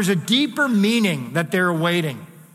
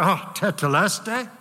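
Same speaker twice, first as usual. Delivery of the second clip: relieved. Shown as a demonstration. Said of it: "with a sense of relief, as if he was glad things were over".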